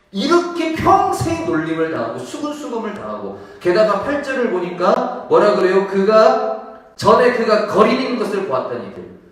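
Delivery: preacher building up forcefully; impassioned preaching. Real, not acted. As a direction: drive the point home to the congregation. Preaches with raised voice.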